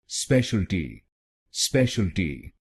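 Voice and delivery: स्पेशलिटी said as spesh-al-ti, three syllables; correct pronunciation. Shown as a demonstration. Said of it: "इसको बोलिए". (सही उच्चारण, स्पेशलिटी तीन शब्दांशों में)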